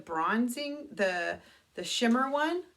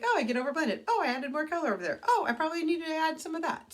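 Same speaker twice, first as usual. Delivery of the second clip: higher and fast, scattered self-talk; mock fretting inner voice; 8 semitones higher, 4 dB louder, much faster than usual. Fussing over her eyeshadow in the bathroom, mock flustered higher voice. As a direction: play your own flustered thoughts at the mirror. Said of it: "It's like".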